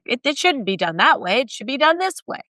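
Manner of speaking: mock-exasperated, insisting on a better way; playing a fed-up founder who knows better; indignant founder. Founder voicing frustration with status quo.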